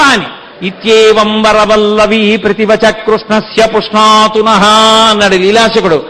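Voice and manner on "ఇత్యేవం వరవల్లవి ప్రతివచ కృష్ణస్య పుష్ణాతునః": slow, measured Sanskrit chanting; verse recitation. Acted. Preacher quoting the gopika's verse, slow and measured. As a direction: intone each word of the verse deliberately.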